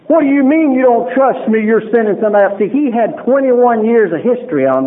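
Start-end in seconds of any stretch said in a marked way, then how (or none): 0.1-2.6 higher pitched indignant protest. Retold or imitated. Angry at the psychiatrist for not trusting him, indignant. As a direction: protest in an offended tone. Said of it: "I was so mad at him".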